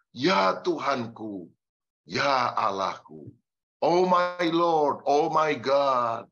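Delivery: slow, drawn-out cry of awe; slow worshipful exclamation, rising on "Oh my Lord"; awestruck confession. Acted. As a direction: breathe out each word as if overwhelmed.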